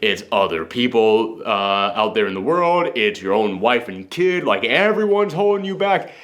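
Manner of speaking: low, coaxing persuasive voice; soothing manipulator. Retold or imitated. Voicing society's manipulative message.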